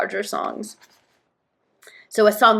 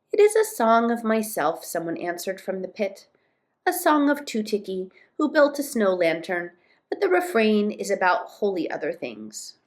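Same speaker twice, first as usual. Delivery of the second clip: storybook dialogue, lifted at each opening; story narration. A narrator's reading. Tootiki answering from the pit, story narration. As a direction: read the answer aloud in storytelling style.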